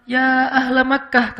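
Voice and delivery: a measured, unforced call, slow and composed; slow, dignified summons; gentle call. Shown as a demonstration. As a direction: call out calmly without straining. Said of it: "Yang beda justru khatib".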